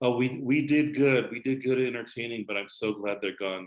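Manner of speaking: ordinary talk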